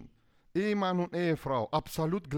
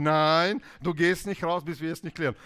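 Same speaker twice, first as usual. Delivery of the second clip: mock firm refusal; 6 dB louder than usual. Extrovert forbids leaving.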